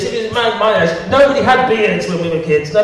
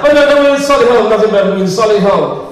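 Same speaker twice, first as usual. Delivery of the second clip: high, fast, huffy posh protest; lightly voiced indignant snob; mock posh Solihull local; 3 semitones higher, 5 dB louder, faster than usual. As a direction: play a snooty local insisting on Solihull. Mocking posh Solihull residents.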